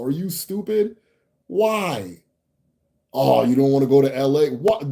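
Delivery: mock indignation. Real, not acted. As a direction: act baffled by the silly warning. Mock outrage at chat comment.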